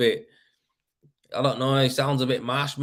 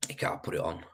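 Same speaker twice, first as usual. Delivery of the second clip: a soft unvoiced whisper, much quieter; whispered repeat; 5 semitones lower, 9 dB quieter than usual. Shown as a demonstration. To himself about plastering in frost, whispered. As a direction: breathe it out as an afterthought.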